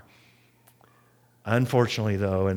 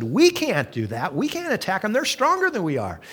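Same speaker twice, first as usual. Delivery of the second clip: scared spies; 7 semitones higher than usual. Retold or imitated. Fearful spies refusing to attack.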